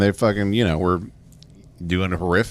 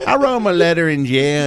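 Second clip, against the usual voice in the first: imitated coach dad; 7 semitones higher than usual. Voices dad on his players.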